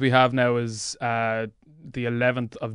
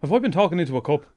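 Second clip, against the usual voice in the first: lightly raised comic character voice; Jim character voice; 6 semitones higher, 3 dB louder than usual. Acted. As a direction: play the paranoid Jim, a bit higher. Jim character enters studio.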